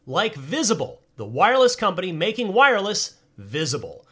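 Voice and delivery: upbeat announcer ad read; bright, breezy ad voice. Acted. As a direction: sell it like a radio spot.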